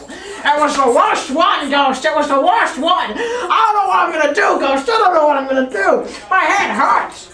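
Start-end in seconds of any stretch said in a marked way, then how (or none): 0.1-1.7 mock anguished shout. Ranting about the worst hangover. 2.0-4.6 higher, louder half-laughed shout; laughing mock despair. Ranting about the worst hangover. 4.9-7.3 mock despairing shout. Ranting about the worst hangover.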